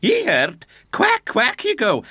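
high, mocking Scots voice; teasing Scottish brogue. Donald mocks Duck in a Scottish voice.

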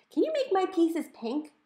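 high, breathless whisper of a request; eager whisper. A narrator's reading. Violet asking the computer for pink pieces in a whisper. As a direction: ask it in an excited hush.

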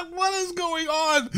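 laughing. Real, not acted. Laughing at absurd shark skin.

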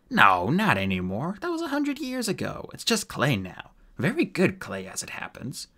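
lightly voiced rogue brushing off worries; breezy dwarf. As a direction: swoop up and down, dismissing concern.

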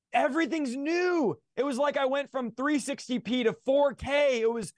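high, elated retelling; excited wonder. Retold or imitated. Telling the host how the world changed after conversion, excited wonder. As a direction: marvel with the pitch lifted.

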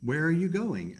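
a nosy raccoon hailing them; raccoon calling out. Acted. Raccoon calls out.

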